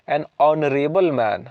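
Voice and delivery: "honorable" begun on the vowel, no h; silent H. Shown as a demonstration. Teacher giving an example of the rule, silent h in "honorable". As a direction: link "an" straight into the o of "honorable". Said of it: "लेकिन वो एच silent है".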